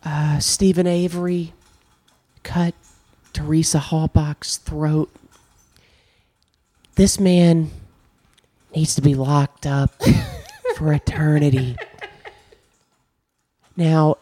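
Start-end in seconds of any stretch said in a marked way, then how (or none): 0.0-11.8 Ken Kratz impression. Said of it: "here's my Ken Kratz impression".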